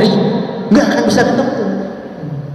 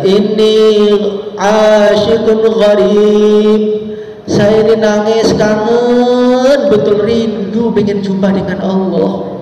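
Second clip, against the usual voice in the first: longing lament; slower than usual. Acted. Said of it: "dia nangis terus".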